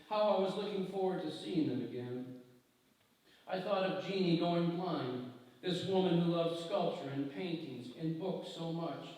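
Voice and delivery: measured, reflective reading of own prose; literary reading. Acted. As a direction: read it like an author at a festival podium. Author reads from her book.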